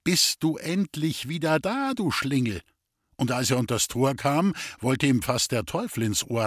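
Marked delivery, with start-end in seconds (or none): 0.0-2.6 scolding wife. Acted. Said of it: "die wohlbekannte Rätstimme".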